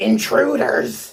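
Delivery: high, creaky, rasping, hissing creature voice. Running a tabletop game, voicing the one speaking Draconic: hissing high-pitched voice. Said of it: "It in a hissing kind of uh, high pitched voice. It says".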